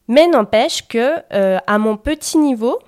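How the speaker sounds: loud, heated and emphatic; getting carried away, too loud; talking too loud. Real, not acted. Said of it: "je parle trop fort, je m'emporte".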